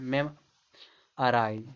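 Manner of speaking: slow "मेमोराइज" as mem-a-raaiz; careful "मेमोराइज", uh in place of o; correct pronunciation. Shown as a demonstration. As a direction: draw out "मेमोराइज" with a weak middle a. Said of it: "ये सही होता है".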